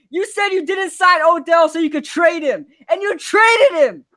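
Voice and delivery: real frustrated yelling; angry rant. Real, not acted. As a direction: shout the accusation. Ranting at GM over trade.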